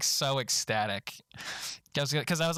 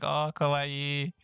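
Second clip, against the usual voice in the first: cooing kawaii; much slower than usual. Retold or imitated. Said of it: "she's like".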